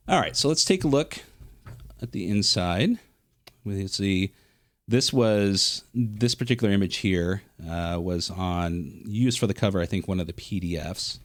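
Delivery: breathy, congested voice from allergies. Real, not acted. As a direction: talk through a stuffy, breathy chest. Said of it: "excuse me if I sound a little breathy, uh, very congested".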